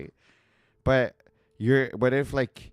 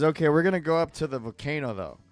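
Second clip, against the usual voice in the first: mock husband; 7 semitones higher, 6 dB louder, faster than usual. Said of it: "your husband says".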